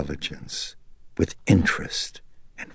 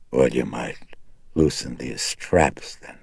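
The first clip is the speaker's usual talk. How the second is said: croaking demand; 3 semitones lower than usual. Acted. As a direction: croak the request slyly. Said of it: "Regan croaked".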